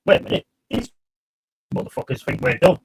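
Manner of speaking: high, quick scheming inner voice; smug rival manager thinking aloud; opposing manager's thought. Retold or imitated. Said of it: "look at that and think".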